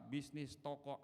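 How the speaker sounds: normal talking voice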